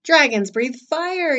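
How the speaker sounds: slow, loud, high bellow; forceful acted reprimand; coach's yell. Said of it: "yelled the coach".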